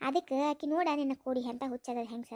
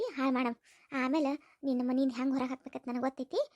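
scheming mother-in-law; 2 semitones lower than usual. Acted.

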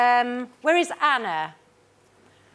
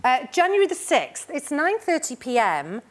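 put-on Barry accent. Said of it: "we go down Barry then".

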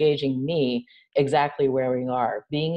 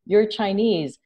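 higher, slower mock of a surprised onlooker; a hint of condescending surprise; mock surprised stranger; 6 semitones higher, 4 dB louder, slower than usual. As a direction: lightly play someone noticing your race. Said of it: "it's like".

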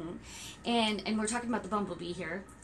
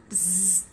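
bee buzzing; 4 semitones lower, 4 dB quieter than usual. Shown as a demonstration. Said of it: "Can you make a sound like a bee?".

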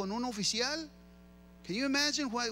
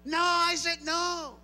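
loud, slow defiant no; loud refusal; 7 semitones higher, 6 dB louder, much slower than usual. Retold or imitated. Child shouting back at his parent, slow loud refusal. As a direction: stretch out a stubborn loud no.

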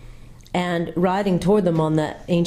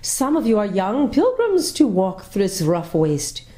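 lady's voice; 4 semitones higher than usual. A narrator's reading. The lady greets the travelers.

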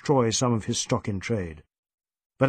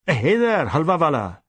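sharp snap; 3 semitones higher, 4 dB louder than usual. Acted. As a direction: bark at the merchant to stop him. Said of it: "snapped Inspector Goethe".

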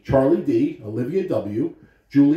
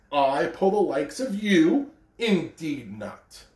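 snooty snort. Acted. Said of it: "the shiny new engine snorted".

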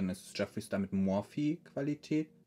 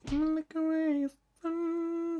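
theatrical; much slower than usual. Pretend. Dramatic line to the sun.

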